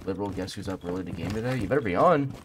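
teasing wake-up call. Real, not acted. Waking up a friend to game.

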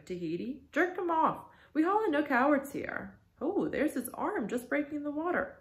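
put-on high-pitched, excitable mad boy; crazed Pip. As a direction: rave in a high, agitated boy's voice. Narrator voices crazed Pip's raving.

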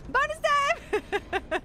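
high, slow drawn-out game announcer. Acted. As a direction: announce it like a game show host.

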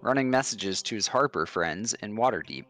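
lightly voiced smooth schemer, calm and knowing; sly stranger voice. A hint of a scheming sage confronting Esther about her past.

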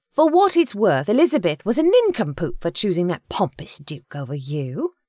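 high, loud indignant outburst in character; fiery Agatha. A narrator's reading. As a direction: start high and loud, indignant, meaning every word. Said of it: "Fire blazed in her eyes".

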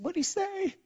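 very high, soft tearful squeak; mock crying. Crying husband asks wife what God said, high tearful voice. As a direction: imitate asking through tears. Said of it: "I'm crying".

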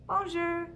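modelling a word in French; French bonjour. Shown as a demonstration.

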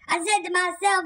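put-on lively read-aloud for kids, rhythmic verse; cozy storyteller reading rhyming verse; storybook reading. A narrator's reading. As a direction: read it like a bedtime story for children. Reads a rhyming Christmas story aloud.

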